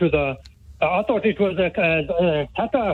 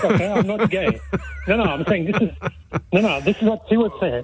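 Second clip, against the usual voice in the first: laughing. Real, not acted. Laughing while explaining himself.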